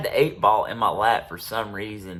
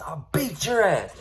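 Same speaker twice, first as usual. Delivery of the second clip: slow, higher menacing whisper; whispered threat; 8 semitones higher, 3 dB louder than usual. Retold or imitated. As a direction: drop to a hiss of a threat.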